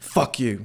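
words grunted and forced out. Describing how a man forces every word out, forced-out grunt. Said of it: "It's coming out like a grunt, almost like".

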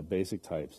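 mock low, soft monotone drone, deadpan.

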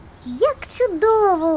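exclamation. A character reacts to a waterfall, exclaiming. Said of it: "Вигукнув Левчик".

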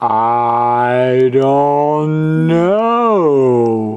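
silly, extremely slow slow-motion voice.

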